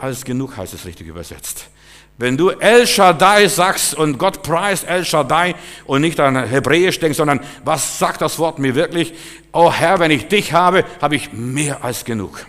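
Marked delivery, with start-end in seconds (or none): 2.2-8.4 fervent preaching. Real, not acted. Preacher exhorting congregation. 9.5-12.4 loud, high cry of devotion; fervent cry to God. Acted. Preacher voicing a prayer to the Lord, loud and high.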